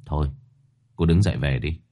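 detached and unmoved; cold dismissal. A narrator's reading. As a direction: send her away coldly. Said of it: "dở giọng lạnh lùng".

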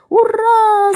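loud, high joyful cheer. Acted. Mice cheering at being allowed to eat, loud hooray. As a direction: shout hooray with joy. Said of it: "закричали мышата".

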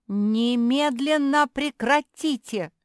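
loud, high, drawn-out order; indignant. A narrator's reading. Марсия breaking up the sisters' fight, indignant. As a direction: shout an outraged command, stretching the words. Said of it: "возмутилась Марсия".

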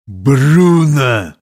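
a mild near-growl of the name. A narrator's reading. Captain to squire, understated growl. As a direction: hold back a laugh while growling. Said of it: "почти прорычал капитан".

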